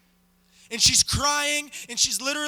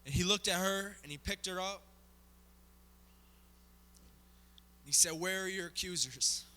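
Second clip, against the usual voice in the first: much softer, lower and hushed; hushed ending; 7 semitones lower, 10 dB quieter than usual. Acted. Preacher closing the story of Jesus and the woman, hushed. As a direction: let it fall to a near hush.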